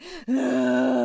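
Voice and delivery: acted puff of exhaustion; exhausted sigh. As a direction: let out a spent, out-of-breath groan. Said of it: "He's out of breath".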